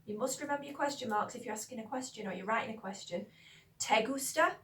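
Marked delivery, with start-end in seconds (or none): 3.8-4.6 "Te gusta" rising steeply at the end; questioning tone. Shown as a demonstration. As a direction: lift "gusta" into an emphatic question. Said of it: "say it with that emphatic tone".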